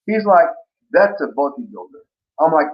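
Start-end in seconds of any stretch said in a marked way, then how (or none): 0.9-2.0 imitated Bulgarian coach's accent. Coach naming a true bodybuilder to his athlete, Bulgarian accent. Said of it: "I have to admire your accent there".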